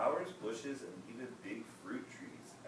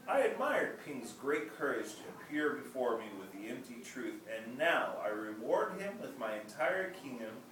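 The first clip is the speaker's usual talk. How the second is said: emperor's speech; 3 semitones higher, 4 dB louder than usual. Acted. Emperor explains the cooked seeds to the children, regal. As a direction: speak like a kindly emperor to the crowd.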